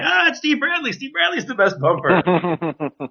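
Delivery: squeezed high cry, then slow give-in; crushed and finally giving up, slowing at the end; strained surrender. Retold or imitated. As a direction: cave in under the weight. Giving in under barbell weight.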